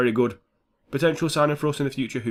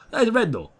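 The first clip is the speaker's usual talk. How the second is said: much higher, indignant; high outraged insistence; 10 semitones higher, 3 dB louder, faster than usual. Real, not acted. Gamer protesting the missing red card, much higher. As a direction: squeak it in disbelief. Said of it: "I don't know why I'm talking like that".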